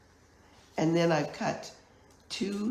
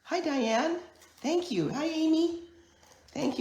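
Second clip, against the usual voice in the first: cheerful greeting; 13 semitones higher than usual. Real, not acted. Greeting viewers who joined live.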